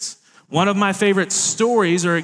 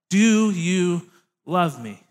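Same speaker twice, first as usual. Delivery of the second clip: slow tender ask; slower than usual. Retold or imitated. Third question, slow.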